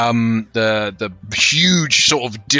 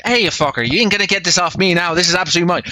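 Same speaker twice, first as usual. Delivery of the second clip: higher, feisty character voice; Florence; 5 semitones higher, faster than usual. Acted. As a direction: defend your prize in a raised voice. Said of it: "Florence just sort of look at me".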